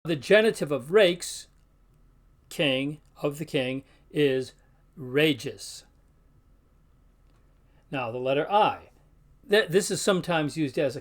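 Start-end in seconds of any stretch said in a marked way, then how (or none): 5.0-5.8 regis with G as in giant; soft G. Shown as a demonstration. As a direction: say regis as "ray-jees". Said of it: "so it's a softer sound".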